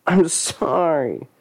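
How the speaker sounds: mean it this time; sincere apology. Acted. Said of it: "It was more genuine".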